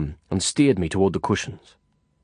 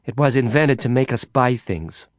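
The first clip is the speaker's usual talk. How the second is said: angry; 3 semitones higher than usual. Acted. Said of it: "Carla snapped back angrily".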